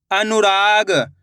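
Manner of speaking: अनुराग said slowly, each syllable drawn out; slow demo. Shown as a demonstration. Teacher showing pupils again, slow अनुराग. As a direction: stretch अनुराग out so pupils can follow. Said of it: "एक बार फिर से देखिए".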